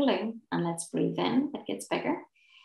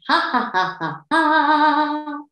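chest laugh ha ha; 7 semitones higher, 5 dB louder, slower than usual. Shown as a demonstration. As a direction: open hearty ha ha ha. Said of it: "the laughter sound".

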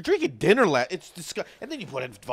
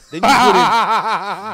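laughing disgust; 8 semitones higher, 12 dB louder, much slower than usual. Real, not acted. Disgusted rant over Bloody Marys.

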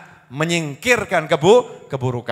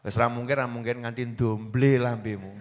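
mock discourager; 7 semitones lower, 7 dB quieter than usual. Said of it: "Jangan kemudian orang dibuat putus asa".

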